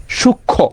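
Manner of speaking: সূক্ষ্ম as shuk-kho with the nasal silent; silent letter demo. Shown as a demonstration. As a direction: leave out the m in সূক্ষ্ম. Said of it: "এটা একদম উচ্চারিত হয় না".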